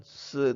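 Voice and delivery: "se" in a falling fourth tone. Shown as a demonstration. Teacher explains the Mandarin syllable, "se" falling in fourth tone. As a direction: drop the pitch sharply on "se". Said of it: "itu nada keempat".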